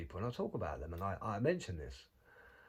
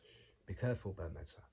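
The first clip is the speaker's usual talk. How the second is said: hushed warning; 3 semitones lower, 5 dB quieter than usual. Pretend.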